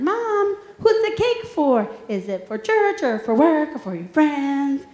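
lightly voiced boy asking the same question; imitating her son a third time. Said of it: "my son said".

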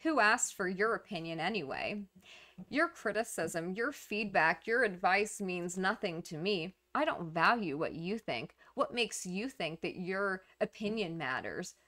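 mildly contemptuous brush-off; a touch of cool disdain; dismissive. Acted. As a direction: wave the critic away, understated. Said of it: "dismissing of the critic".

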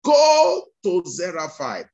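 God's command. Retold or imitated. Preacher voices God commanding Elijah.

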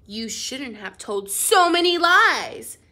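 stern scolding. Acted. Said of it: "said the grown-up sternly".

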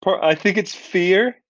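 nervous high voice. Shown as a demonstration. Actor showing his fearful American voice, high. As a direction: go up high like you're scared. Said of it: "I go very high".

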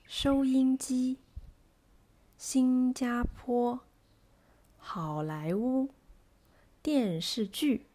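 slow model words, light middle and strong last syllable, as in 收音机; weight the last syllable of 新加坡, keep the middle light; medium, light, stressed. Shown as a demonstration. Teacher reads examples, slowly, last syllable stressed. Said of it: "medium stressed and the middle syllable is light".

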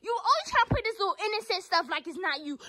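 high, fast telling-off; heated, rapid reproach; angry scolding. Real, not acted. Scolding sister.

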